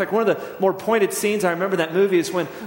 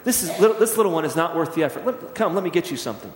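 smooth. Retold or imitated. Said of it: "smoothly says".

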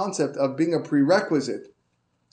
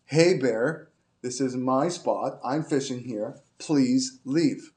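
firmer repeat to the bear, Hey bear pushed out; slightly raised second warning to the bear; a bit louder; slower than usual. Retold or imitated. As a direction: say it again with a little more force. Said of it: "And again, louder".

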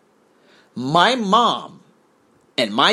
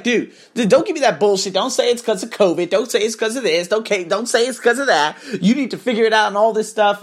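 higher-pitched, insistent telling-off; imitating angry scolding; 5 semitones higher than usual. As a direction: call someone out, piling up each objection. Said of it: "she was getting angry".

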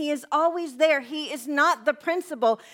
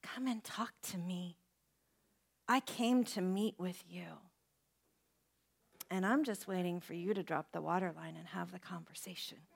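soft voice of God; 7 semitones lower, 12 dB quieter than usual. Retold or imitated. God quietly calling a hiding person to talk. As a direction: speak as God, gently inviting. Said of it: "'Cause God says".

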